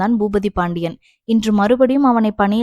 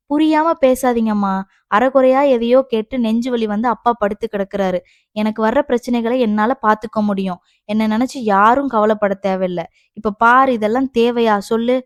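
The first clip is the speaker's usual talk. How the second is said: heated scolding, forceful openings; exasperated; 3 dB louder than usual. Acted. Daughter rebukes her mother over father's illness, exasperated. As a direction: argue back in exasperation.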